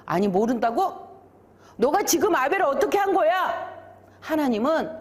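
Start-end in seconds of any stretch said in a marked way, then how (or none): 0.0-3.7 disbelief rising into higher reproach; scolding. Acted. God rebuking Cain for his lie, acted scolding that climbs in pitch. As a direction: take the denial up, then scold in raised pitch. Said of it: "꾸짖으셨어요".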